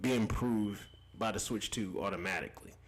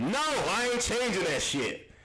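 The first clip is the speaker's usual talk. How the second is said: laughing; 13 semitones higher than usual. Real, not acted. Laughing at super chat.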